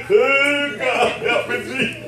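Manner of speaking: slow, laughing cry for help; a preacher laughing as he mimics his old prayer; laughing mock plea. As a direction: plead to God through a laugh. Voicing himself crying out.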